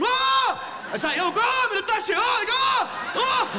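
high, loud screaming in mock panic; mock terrified scream. As a scared child seeing an old woman, high loud screaming.

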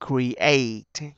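"create" as "kree-ate", ea split in two; two separate vowels. Shown as a demonstration. Teacher introducing the word to students, split vowels in create. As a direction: say "create" with ee then ay. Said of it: "nó tách".

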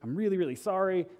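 apologetic, pitch climbing on sorry. Retold or imitated. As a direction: imitate a very apologetic company rep. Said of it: "He was super apologetic".

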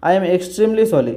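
slow, drawn-out heartfelt sorry; a slow pleading sorry in English; slow sincere apology. Retold or imitated. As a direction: stretch the apology out earnestly.

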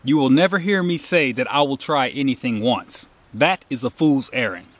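deliberate, emphatic declaration with NEVER stressed. Real, not acted. Telling viewers he won't try anything once, emphatic. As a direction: state "never" firmly as a settled rule. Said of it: "let me say this emphatically".

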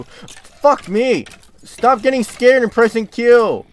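high, loud, slow angry yelling at himself; furious outburst. Real, not acted. Gamer keeps misclicking Q, loud high angry yelling at himself. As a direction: berate yourself full force.

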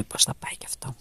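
hushed whisper so as not to scare them. Real, not acted. Not to frighten the animals, a hushed whisper. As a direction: breathe it out silently. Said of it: "Μιλάω σιγά, μη τα τρομάξω".

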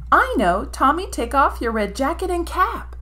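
high, loud eureka; sudden idea. Acted. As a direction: burst out with the plan. Ginger gets an idea.

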